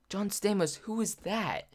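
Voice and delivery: high-pitched, puzzled disbelief; baffled question. Retold or imitated. Teen asks mom who the celebrity is, baffled. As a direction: re-enact a clueless reaction, pitched high.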